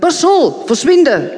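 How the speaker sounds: sharp high shout to shoo a dog; shooing command. Acted. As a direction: snap at the dog to go away. Vera shooing the begging dog.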